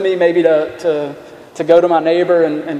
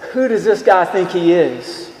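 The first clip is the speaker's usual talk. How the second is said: scoffing scribes. Retold or imitated. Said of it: "Another way that you could put it is".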